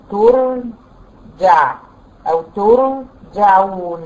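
ترجع and ترجعون held very slowly, the ra heavy; drawn-out demonstration. Shown as a demonstration. Teacher stretching ترجعون to show the heavy ra. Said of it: "قبلها مضموم".

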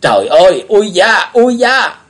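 loud, rising yelps of pain; young man yelping as he is struck; crying out in pain. Acted. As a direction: cry out as the staff hits. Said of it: "chàng la lên một tiếng".

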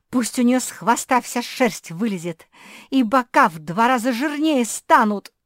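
very high, loud furious scream. Acted. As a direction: scream it in a tantrum. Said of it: "закричала".

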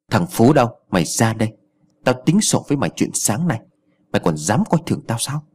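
a mock bellow at the gate, lightly done; ringing call. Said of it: "giọng vang lên".

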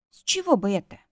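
said through a yawn; sleepy yawn on the words. Acted. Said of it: "я зевнула".

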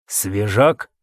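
low raspy question; hoarse rasp. Acted. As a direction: rasp it weakly. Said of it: "прохрипел он".

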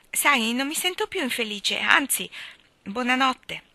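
put-on high, loud child's voice, cheered; relieved little boy. A narrator's reading. Davy off to bed forgiven, relieved little boy. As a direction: say it like a boy lightened of guilt.

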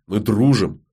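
firm, weighted addition; understated insistence on дружим; pointed emphasis. A narrator's reading. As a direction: press on дружим, stretched with weight. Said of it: "С нажимом добавил".

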